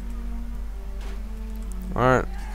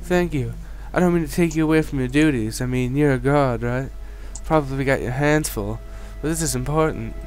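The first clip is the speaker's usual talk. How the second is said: frightened townswoman; 3 semitones higher than usual. Acted. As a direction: plead for help as a scared villager. Townswoman continues.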